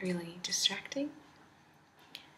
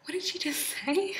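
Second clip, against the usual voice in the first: baffled whisper; 11 semitones higher, 8 dB louder than usual. Retold or imitated. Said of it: "'cause you're like".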